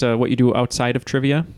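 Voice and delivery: a slip into a light Canadian accent on outside; offhand hint of Canadian vowels; lightly Canadian-sounding question. Real, not acted. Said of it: "I don't know why I said that in a Canadian accent".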